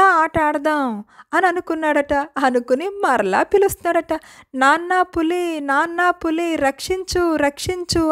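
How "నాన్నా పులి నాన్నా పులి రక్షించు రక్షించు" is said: fake call for help. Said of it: "అని గట్టిగా అరుస్తున్నాడట".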